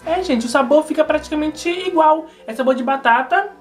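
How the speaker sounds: speaking between bites; talking while chewing fries. Real, not acted. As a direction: mouth partly full of food. Seen 1: Fry enters mouth at 0.4; chewing motions until about 1.1.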